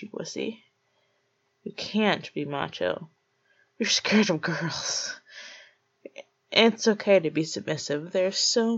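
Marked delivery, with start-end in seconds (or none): 3.8-5.1 slow taunting whisper; mocking whisper. Taunting the scared listener in a slow whisper. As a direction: breathe it out slowly, teasing.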